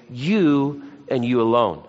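both "you"s leaned on; "You and you alone" with weight on "you"; stress on you. Shown as a demonstration. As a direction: press each "you" firmly. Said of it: "That's the emphasis".

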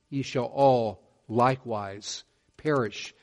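"all" leaned on, slow and weighty; slow solemn scripture reading, "all" stressed. Shown as a demonstration. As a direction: dwell on "all" in the verse. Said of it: "the emphasis on the word all".

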